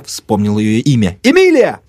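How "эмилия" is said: high, raised summoning call. A narrator's reading. Narrator shouts into the hall, calling out. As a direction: call through the doorway urgently.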